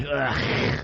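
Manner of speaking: throaty, drawn-out "ugh"; retold groan of distaste; disgusted groan. Imitates his disgust at character acts.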